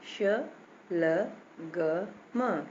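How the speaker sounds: श, ल, ग, म each alone with a short "a"; letter-by-letter sounding. Shown as a demonstration. Teacher spelling a word for children, separate short-vowel sounds. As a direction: sound out श, ल, ग, म with pauses. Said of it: "सब में छोटा आ निकल रहा है".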